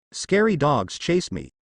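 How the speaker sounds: put-on slow, frightened little girl; slow, timid little voice; timid and afraid. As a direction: speak slowly, scared of her brother. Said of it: "said Naruko in fear".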